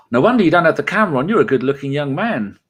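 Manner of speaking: retold amazement. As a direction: act out being taken aback by his looks. Retold amazed reaction on seeing him.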